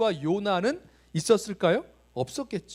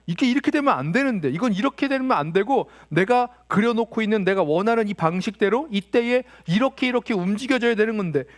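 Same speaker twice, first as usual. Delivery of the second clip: worked-up grumble, a little louder; mild mock anger; 3 semitones higher, 5 dB louder than usual. Preacher voicing someone whose plans go wrong, mildly angry. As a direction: protest as if things must go your way. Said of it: "그러니까 막 화가 나요".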